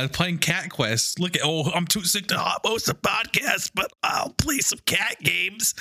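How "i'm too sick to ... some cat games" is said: weak whiny sick-guy whisper; sick Andrew impression. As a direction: whisper it like a feeble sick friend. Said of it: "That's my sick Andrew impression".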